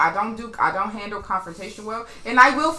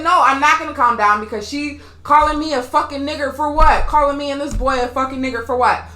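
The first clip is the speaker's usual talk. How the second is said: loud, raised-pitch protest; indignant refusal; 5 semitones higher, 6 dB louder than usual. Retold or imitated. Rider arguing with police about the slur, indignant. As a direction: retell refusing to calm down, voice up.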